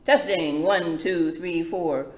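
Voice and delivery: lightly voiced mic check. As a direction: call out a sound check into the mic. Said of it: "sheep checks the microphone".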